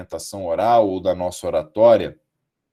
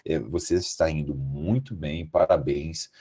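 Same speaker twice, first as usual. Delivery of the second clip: low, soft, tactful interjection; hushed, courteous committee-member voice; polite examiner interrupting; 6 semitones lower, 4 dB quieter than usual. Retold or imitated. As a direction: gently cut in on a student with formal praise. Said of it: "eu falei assim".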